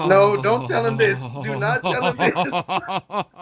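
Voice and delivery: slow, laughing plea; drawn-out giggling don't; laughing mock panic. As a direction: beg through laughter.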